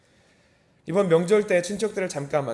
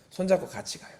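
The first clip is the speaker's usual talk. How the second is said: normal talking voice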